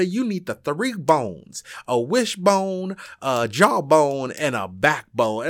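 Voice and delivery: slow, drawn-out list, stepping down in pitch; measured retold advice. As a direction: spell out each bone slowly, imitating a speech. Retells grandmother's advice as punchline.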